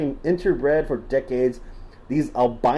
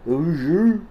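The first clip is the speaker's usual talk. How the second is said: put-on Southern accent. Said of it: "Should I stop doing the voice?".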